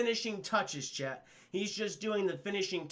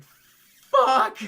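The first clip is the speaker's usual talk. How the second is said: very high, loud acted outburst; frustrated yell; 14 dB louder than usual. Streamer voicing Alistair Smythe after his defeat, frustrated yell. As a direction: scream the curse as a defeated villain.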